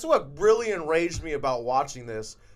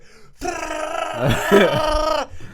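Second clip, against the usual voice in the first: loud, high mock gunfire burst; imitated gunfire noise; 11 semitones higher, 6 dB louder than usual. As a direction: shout out the sound of shots. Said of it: "you just hear".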